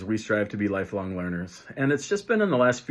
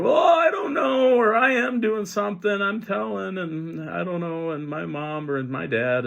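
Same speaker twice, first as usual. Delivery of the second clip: put-on much higher, shouted kid whine fading away; whiny kid; 10 semitones higher than usual. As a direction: mimic a flustered kid making excuses. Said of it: "a lot of kids will be like".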